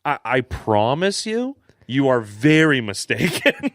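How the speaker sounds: measured, unhurried cop impression; imitating a calm, assured officer. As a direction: play the officer patiently holding his ground. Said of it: "the cop's just being calm the whole time".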